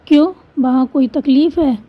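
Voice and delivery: a short comma break right after क्यों; pause after क्यों. Shown as a demonstration. Teacher shows where a comma falls, pausing after क्यों. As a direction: say क्यों, stop briefly, then ask the rest. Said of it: "क्यों हम रुकते हैं".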